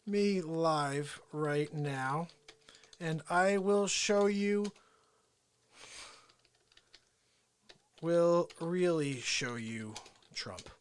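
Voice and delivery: lightly voiced presidential impression, slow and drawn out; Donald Trump impression. Streamer challenging Mike to join live, slow Trump impression. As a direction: stretch the words like a hinted politician impression. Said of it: "hear a real Donald Trump impression".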